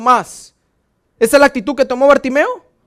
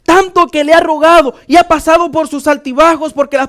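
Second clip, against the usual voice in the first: higher, forceful preaching to the congregation; predicación enérgica; 4 semitones higher, 5 dB louder than usual. Real, not acted. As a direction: press each question on the congregation. (prédica enérgica, en voz alta)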